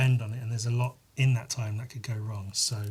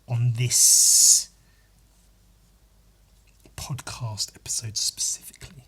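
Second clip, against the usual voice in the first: whispered aside; 3 dB louder than usual. Real, not acted. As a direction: drop to a whisper for this bit. Whispered aside about the episode.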